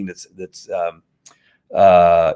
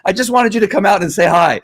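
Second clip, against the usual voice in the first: high, louder happy-dog voice on "I just wanted you to come out and say hi"; flamboyant dog voice; 10 semitones higher, 4 dB louder than usual. Retold or imitated. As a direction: gush it as the eager dog. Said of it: "a little bit of flamboyant".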